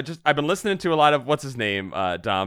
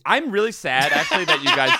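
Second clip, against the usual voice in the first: laughing; 3 semitones higher, 3 dB louder than usual. Real, not acted. Laughing while saying he's sad.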